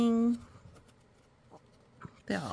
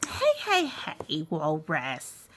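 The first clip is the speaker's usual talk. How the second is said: Peg calling out; 3 semitones lower, slower than usual. Acted. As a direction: call out brightly to Walrus. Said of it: "cried, called Peg".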